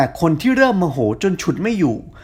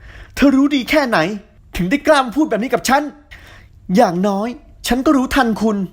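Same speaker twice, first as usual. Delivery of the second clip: raised voice; 7 semitones higher than usual. A narrator's reading. Tin and heroine quarrel heatedly.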